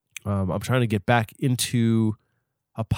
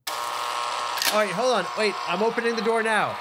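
high small voice; 7 semitones higher, 4 dB quieter than usual. Acted. Caps voiced answering from booth.

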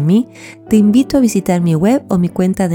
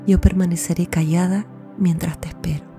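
whispering; 5 dB quieter than usual. Acted. Falls silent during counting.

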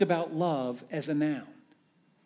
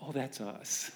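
laughing; 5 semitones lower, 12 dB quieter than usual. Retold or imitated. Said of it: "you're going".

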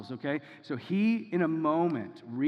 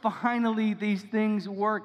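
higher, louder, very slow joyful cry; overflowing joy; 5 semitones higher, 5 dB louder, much slower than usual. Retold or imitated. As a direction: savour each word like a man who can finally walk. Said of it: "an overflow of joy coming out of this guy".

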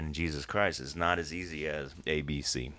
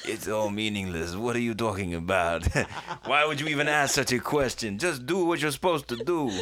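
hammed-up French philosopher, rising higher; bad French accent; 6 semitones higher than usual. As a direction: dismiss it all in a mock French accent. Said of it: "That's my French accent".

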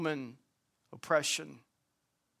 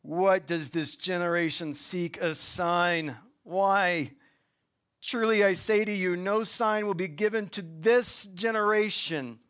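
reading Jesus's words with a touch of irritation, a little louder; irritated Jesus; 2 semitones higher, 3 dB louder than usual. Acted. Preacher reads Jesus rebuking the sign-seeking Pharisees, mildly irritated. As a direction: let Jesus's exasperation show, understated. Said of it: "Jesus is irritated".

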